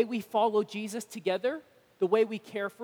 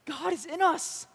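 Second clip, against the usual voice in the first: awed; 8 semitones higher than usual. Real, not acted. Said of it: "that's insane".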